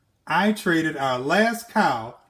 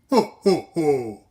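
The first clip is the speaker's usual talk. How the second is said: ugly giant laugh. Acted. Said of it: "The giant laughed an ugly laugh".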